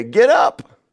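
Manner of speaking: high, loud urging shout; commanding. Acted. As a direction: call listeners to their feet. Urging listeners with angel's command.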